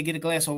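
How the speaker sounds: water said WAH-der, the t a soft d. Shown as a demonstration. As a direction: flap the t in water to a d. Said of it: "we say it with a D".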